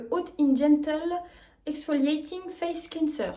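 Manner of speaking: slow product name in French-accented English. Real, not acted. Vlogger reading the cleanser's English name, strong French accent. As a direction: read the English label carefully with a French accent. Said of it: "faites pas attention à mon accent anglais".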